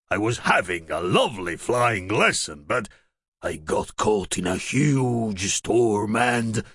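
lightly voiced young dragon; dragon Douglas. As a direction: dragon recounting his crash. Dragon tells his story.

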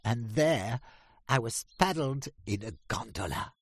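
high, loud proud duck voice; Drake the duck. A narrator's reading. Drake tells the ducks of France, high and loud. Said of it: "said Drake".

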